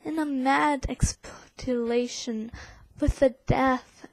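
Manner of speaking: forceful poem recital in an attempted British accent; English accent. Shown as a demonstration. Reading Poe's frantic fire bells, forceful English accent. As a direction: declaim with urgency in your best English accent. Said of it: "my best attempt of an English accent".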